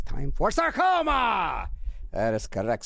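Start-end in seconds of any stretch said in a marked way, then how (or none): 0.0-1.7 drawn-out, rising game-show style announcement; mock announcer shout. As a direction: belt out a hammed-up segment title.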